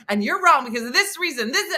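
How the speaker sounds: fast, mild mock argumentative; fired up arguing. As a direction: rattle off reasons ready for a fight. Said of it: "I'm all fired up for a fight".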